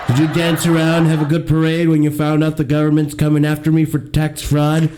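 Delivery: lightly voiced Trump, boastful and taunting; a hint of Trump mocking his liberal co-host; Donald Trump impression. Host mocks the liberal co-host as Trump, lightly voiced Trump. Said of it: "It's me, the Donald".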